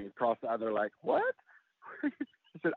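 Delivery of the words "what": a retold "What?" jumping far up; agent's shock. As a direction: play the agent, caught completely off guard. Agent stunned by idea.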